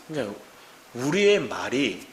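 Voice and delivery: ordinary delivery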